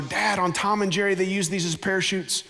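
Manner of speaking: a hint of a thrilled little kid; excited little boy. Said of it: "with all the excitement that a little boy can muster".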